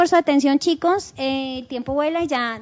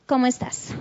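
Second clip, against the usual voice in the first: "¿Cómo estás?" plano, sin subida de pregunta; sin entonación; 2 semitones lower than usual. Shown as a demonstration. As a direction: di "¿Cómo estás?" como una afirmación, sin melodía interrogativa. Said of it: "¿Tú me entenderías que es una pregunta?". ("¿Cómo estás?" sin entonación de pregunta)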